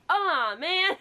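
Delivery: high, loud letdown groan; disappointed sigh. Real, not acted. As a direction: sound let down. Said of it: "the reason I went, "Aw, man".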